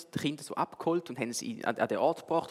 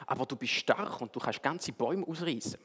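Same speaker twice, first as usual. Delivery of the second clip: put-on wise old owl; 6 dB quieter than usual. Wise owl answers the elephant.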